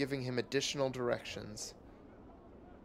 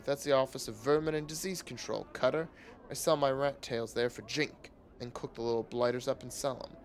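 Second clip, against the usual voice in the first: lightly voiced rat hawker. Rat seller explaining.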